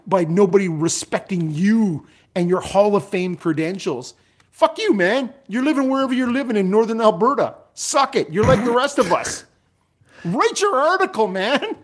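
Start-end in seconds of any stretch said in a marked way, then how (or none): 4.5-11.8 scornful rant. Pretend. Ranting as if at the writer.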